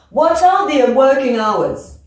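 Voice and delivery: slow, hours? falling away; falling question. Shown as a demonstration. Teacher modelling an open question, slow falling tune. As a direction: let hours? drop slowly. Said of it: "Pouf, je descends".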